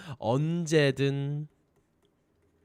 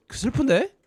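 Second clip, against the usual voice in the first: mock sad; 8 semitones higher than usual. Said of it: "슬픈데? So, so sad".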